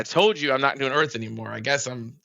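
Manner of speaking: laughing insistence. Real, not acted. Storyteller joking to listener about quitting Earth, laughing. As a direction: insist on it, then crack up.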